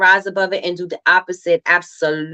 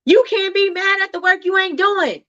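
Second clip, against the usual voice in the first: emphatic preaching; 9 semitones higher than usual. Real, not acted. Preaching point to audience.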